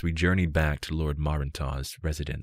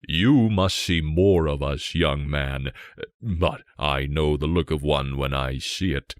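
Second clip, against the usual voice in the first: a lightly voiced king booming his praise; hearty king; 4 dB louder than usual. King speaks heartily to guest.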